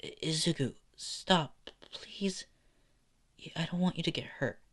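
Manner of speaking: high, soft, halting plea; pleading girl. Acted. Girl begging Izuku to stop before he gets hurt, soft and pleading. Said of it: "And she just responds saying".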